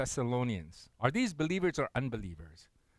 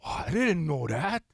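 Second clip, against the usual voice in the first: a wide-eyed wow of amazement; imitating amazed newlyweds; mock disbelief. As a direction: act out the couple's surprise, lightly. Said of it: "look at us in total disbelief".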